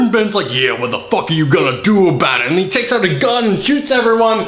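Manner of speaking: mock-manic rant, mostly high; hammed-up frenzy. Host ends fantasy with Ben shooting everyone, hammed-up frenzy. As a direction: keep the pretend rampage at full tilt.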